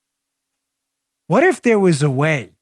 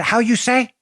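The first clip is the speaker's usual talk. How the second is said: mock Spanish accent; 6 semitones higher, slower than usual. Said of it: "copying a Spanish accent".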